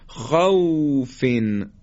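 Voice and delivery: خوفن drawn out, soft gliding واو; slow soft leen demo. Shown as a demonstration. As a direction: stretch خوفن gently.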